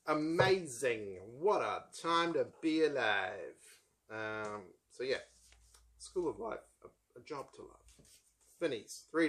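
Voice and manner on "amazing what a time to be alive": slow, drawn-out mock wonder; mock amazement. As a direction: marvel with exaggerated, ironic awe. Mock wonder at AI self-help.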